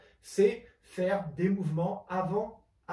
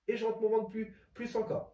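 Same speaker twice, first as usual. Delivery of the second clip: holding breath; 2 semitones higher, 3 dB quieter than usual. Real, not acted. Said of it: "je bloque la respiration".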